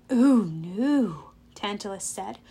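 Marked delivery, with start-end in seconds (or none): 0.1-1.3 drawn-out, swooping objection; mock-polite veto; villain's smug refusal. A narrator's reading. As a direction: savour the refusal. Tantalus refuses the boy.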